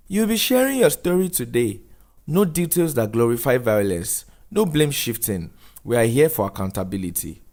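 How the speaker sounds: measured counsellor setting the rules; social worker voice. Acted. Missus Dube briefing Daniel before his talk, lightly voiced firm counsellor.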